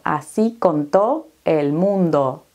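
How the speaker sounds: ordinary talk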